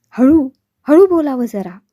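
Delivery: a scared plea to keep voices down; frightened hush. A narrator's reading. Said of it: "घाबरून म्हणाल्या". (घाबरून हळू बोलणे)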